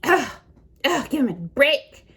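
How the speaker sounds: snotty scolding. Retold or imitated. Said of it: "she goes".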